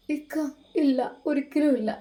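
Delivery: mild sobbing no; sobbing softly. Acted. Wife denies it to her husband, understated sob. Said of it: "അവൾ വിതുമ്പിക്കൊണ്ട് പറഞ്ഞു".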